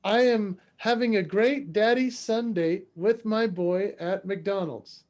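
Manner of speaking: slow, deliberate dictation; measured, spelled-out announcement; reading out a post. Retold or imitated. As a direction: recite the post as if typing it out. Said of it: "I wrote on a Facebook post".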